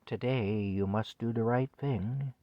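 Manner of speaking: softly measured mock PA instruction; gently instruct, like a background recording; soothing announcer. Man imitating a dystopian movie's PA voice, soft and soothing. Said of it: "It was a very soothing female voice".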